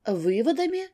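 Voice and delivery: high sharp cry of outrage; indignant exclamation. Acted. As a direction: throw the word back, shocked. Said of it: "вскрикнула жена".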